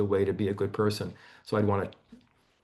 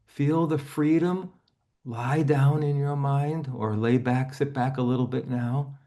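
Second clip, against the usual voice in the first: calm imagery guidance for a client; guided relaxation. Acted. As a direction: ease her into lying down, slowly.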